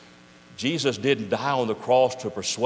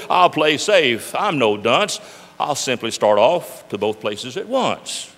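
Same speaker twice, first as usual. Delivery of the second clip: smug slow plan; 6 dB louder, slower than usual. Acted. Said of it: "cried the Zode".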